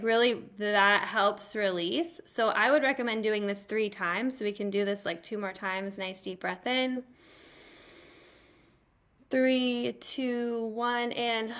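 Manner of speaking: calm guiding voice counting down the breath; soothing breathwork guide; guided breathing. Shown as a demonstration.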